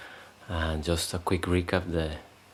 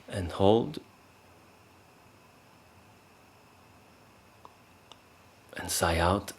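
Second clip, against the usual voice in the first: calm, unhurried breathing cues with long pauses; guided meditation. Shown as a demonstration. Meditation teacher leading the group into three breaths, calm guided voice. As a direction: let each short cue lift at the end.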